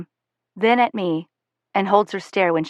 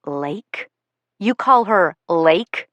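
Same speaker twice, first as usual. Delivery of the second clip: accusing; much slower than usual. A narrator's reading. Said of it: "She glares at him accusingly".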